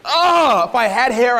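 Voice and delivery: high groan of frustration tumbling into words; exasperated. Retold or imitated. Speaker acting out his reaction to fans, exasperated. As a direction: groan it high, then ease down. Frustration carried on after outburst.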